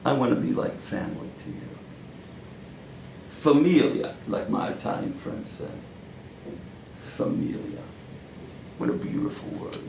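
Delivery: put-on deliberate New York-accented stage monologue, long pauses; Al Pacino-like monologue. Powerful mentor drawing Joe in like family, Pacino-style monologue. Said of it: "channeling Al Pacino".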